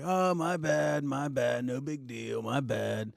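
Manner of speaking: slow, offhand, fading shrug; mock careless apology. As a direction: toss it off like it is nothing. Mocking Bob's careless apology.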